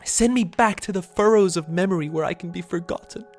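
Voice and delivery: a long-waiting ghost begging for release; pleading ghost. Acted.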